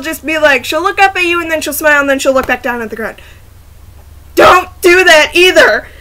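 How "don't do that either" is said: louder, slow, fed-up plea; exasperated outburst. Acted. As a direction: throw up your hands and plead, slowly. Frustrated outburst at girl's behaviour.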